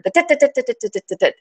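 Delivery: mock chatter. Mimicking the narrator's endless inner chatter, rapid and fading. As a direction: rattle off tit tit like a busy mind. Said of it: "the narrator".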